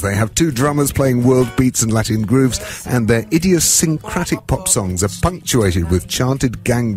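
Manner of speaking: bright on-air read over music; radio presenter intro. Acted. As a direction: announce the band like a DJ. Radio host reading the intro.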